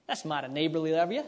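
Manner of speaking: quick Southern US accent, rising at the end. Shown as a demonstration. Preacher quoting a folksy phrase to his listeners, in a Southern accent. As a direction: put on a light Southern accent. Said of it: "I say that with my Southern accent".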